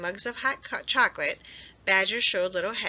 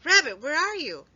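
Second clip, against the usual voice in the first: higher, louder calling into distance; 8 semitones higher, 5 dB louder than usual. A narrator's reading. Friends searching for buried Rabbit, calling out. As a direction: call across the mountain.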